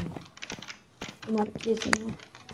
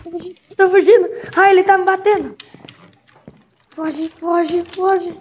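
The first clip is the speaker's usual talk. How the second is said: panicking gamer; 4 semitones higher than usual. Real, not acted. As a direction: shout in panic while being chased. Being hit while fleeing.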